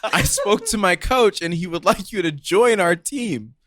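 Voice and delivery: deliberate imitation of a Spanish accent. Teammate passing on the coach's invitation, Spanish accent. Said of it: "Please talk in that accent".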